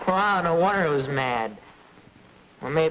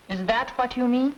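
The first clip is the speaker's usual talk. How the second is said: ordinary delivery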